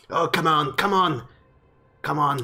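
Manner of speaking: lightly voiced combative dwarf; mild, scrappy dwarf challenge; dwarf spoiling for fight. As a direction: goad them to a fight. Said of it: "just starts shaking them in your direction".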